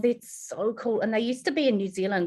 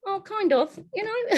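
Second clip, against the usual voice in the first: hesitant; 12 semitones higher than usual. Retold or imitated. Answering mother.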